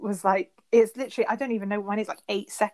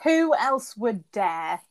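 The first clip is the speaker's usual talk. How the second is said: very slow mock-solemn question; mock reverence; mock awe; much slower than usual. To a friend, praising a rapper in slow mock reverence.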